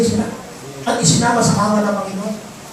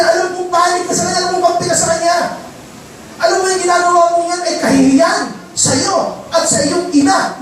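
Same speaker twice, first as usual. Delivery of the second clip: higher-pitched retelling of a furious king, not shouted; angry Saul; 5 semitones higher than usual. Retold or imitated. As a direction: voice Saul scolding his son with mild heat. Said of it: "Galit na galit si Haring Saul kay Jonathan". (banayad na galit ni Haring Saul sa anak)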